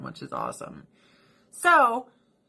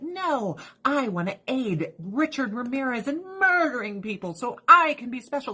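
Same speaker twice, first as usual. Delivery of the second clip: mocking voice; 4 semitones higher than usual. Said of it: "And she's like".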